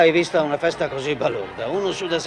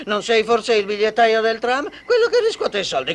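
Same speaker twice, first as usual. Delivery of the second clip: mocking with a laugh; laughing taunt; 3 semitones higher, 4 dB louder than usual. Taunting the ticket collector.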